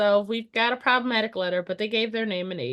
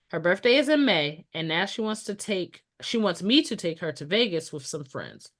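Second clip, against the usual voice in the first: fireside storytelling. Shown as a demonstration. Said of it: "prepare my storytelling voice".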